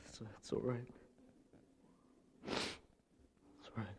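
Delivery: imitating grandpa, whispered and slow; a hushed, slow retold reassurance; soft whisper. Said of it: "It's like".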